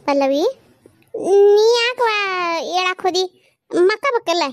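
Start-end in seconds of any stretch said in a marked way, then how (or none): 1.6-4.4 concerned chiding. Acted. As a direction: chide her for getting out of bed, pitched up. Chides new mother for getting up. (ಕಾಳಜಿಯಿಂದ ಏರುದನಿಯಲ್ಲಿ ಗದರಿಕೆ)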